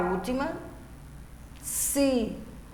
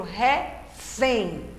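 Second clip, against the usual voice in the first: "refém" split, weight on the final "fém"; stress on last syllable. Shown as a demonstration. Teacher showing pupils an oxytone, final-syllable stress on "refém". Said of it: "a última sílaba é a mais forte".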